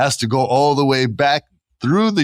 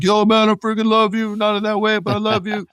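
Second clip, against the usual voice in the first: excited bro; 13 semitones higher than usual. Retold or imitated. Host imitates guy fans gushing over Jey, hyped bro voice. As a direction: gush like a hyped dude fan. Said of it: "Guys are like".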